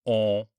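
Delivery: On with rounded lips like O, through the nose; a rounded nasal On. Shown as a demonstration. Teacher modelling the round-lip nasal sound. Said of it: "round your lips".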